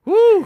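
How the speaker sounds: loud high cheer; high woo. Real, not acted. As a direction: whoop it out.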